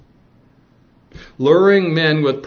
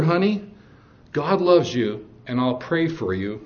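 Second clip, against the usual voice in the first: said with love; 3 dB quieter than usual. Retold or imitated. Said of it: "And I said it with love".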